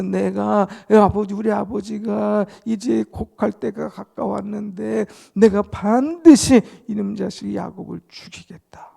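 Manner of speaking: loud ranting. Acted. Esau going about boasting he will kill Jacob, loud and high. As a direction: rant out a threat for all to hear. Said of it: "막 떠들고 다닌 거예요".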